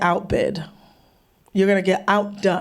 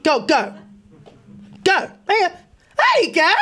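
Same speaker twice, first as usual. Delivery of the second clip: coaxing demonstration; 9 semitones higher than usual. Acted. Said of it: "just try that".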